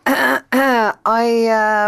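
clearing the throat first. Shown as a demonstration. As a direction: clear the throat then talk. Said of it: "Clear your throat again".

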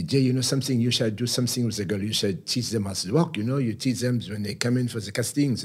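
imitating a French agent making a pitch; French accent.

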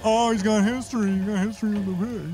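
lightly voiced groaning townsfolk; mock groaning crowd. Townsfolk groaning over Bello's pig history, mild mock groan. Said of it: "You hear groans from the town saying".

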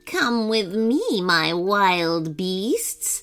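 slow, eerie buzzing witch voice; odd buzzing voice. Acted. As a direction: buzz the words slowly like a possessed witch. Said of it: "speak in an odd buzzing voice".

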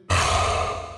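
weary, put-upon sigh out of the dark; a long-suffering huff of breath; human-sounding sigh. Acted. The dark god sighs at Jack's request for light, weary huff. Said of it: "He let out a very human-sounding sigh".

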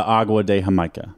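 agua de Jamaica in amateur Spanish; lightly Spanish-accented drink name; attempted Spanish accent. Shown as a demonstration. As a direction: try a Spanish accent, modestly. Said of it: "Sorry for my terrible accent".

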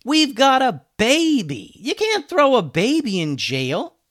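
high, loud, drawn-out protest; indignant high-pitched yell. A narrator's reading. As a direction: plead loudly in alarm. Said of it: "yelled Ben".

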